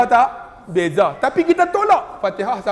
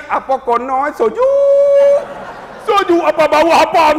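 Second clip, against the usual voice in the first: tinggi dan kuat, loghat Negeri Sembilan; jerit loghat Negeri; 8 semitones higher, 4 dB louder than usual. Retold or imitated. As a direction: pakcik terkejut kain terlucut, menjerit. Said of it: "orang Negeri Sembilan". (pakcik Negeri Sembilan menjerit tinggi)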